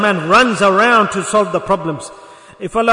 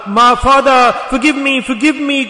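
raised, urgent plea to a father, retold; imitating a distraught son's plea; tearful pleading; 3 semitones higher, 3 dB louder than usual. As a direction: beg forgiveness, voice lifted, without real sobs.

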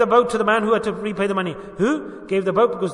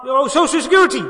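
mock worldly reply; 5 semitones higher, 7 dB louder than usual. Mocking a worldly answer.

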